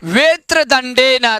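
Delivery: वेत्र दंडे न read slowly and distinctly; careful pronunciation. Shown as a demonstration. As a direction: model वेत्र दंडे न with drawn-out vowels. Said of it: "एक बार उच्चारण कर लेंगे".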